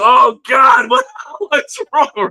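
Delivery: scared student begging to know; mock frightened student. Student frightened by yelling teacher.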